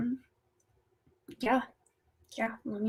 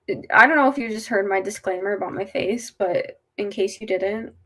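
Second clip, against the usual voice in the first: after wisdom teeth. Real, not acted. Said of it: "that's why I look like this".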